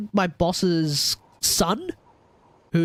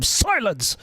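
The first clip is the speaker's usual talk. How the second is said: slow, mock commanding judge; Nouvelette; 3 semitones higher than usual. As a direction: draw it out like a courtroom order. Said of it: "Nouvelette's gonna be like".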